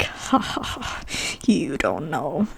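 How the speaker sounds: low, slow mock-menacing reply; cocky comeback. Customer answering a doubting waiter, cocky and low. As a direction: drop deep and drag it out, full of swagger.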